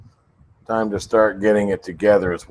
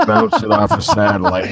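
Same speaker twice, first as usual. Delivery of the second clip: imitating Pete Wiener; 4 dB louder than usual. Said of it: "That's my friend Pete Wiener".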